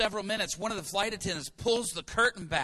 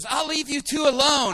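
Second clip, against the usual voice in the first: awkward retreat; 7 semitones higher, 9 dB louder than usual. Retold or imitated. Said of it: "And she goes".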